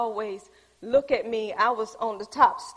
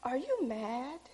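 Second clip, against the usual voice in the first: put-on child's worried question; 8 dB quieter, slower than usual. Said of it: "She said".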